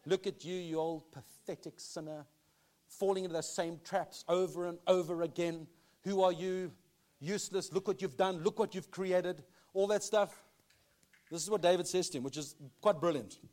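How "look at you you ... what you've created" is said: soft sneering voice in the ear; accusing inner voice. Retold or imitated. The enemy's voice whispering accusations to a weary believer, soft sneer. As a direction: belittle yourself, quietly scornful. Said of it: "the timing of that voice in his ear".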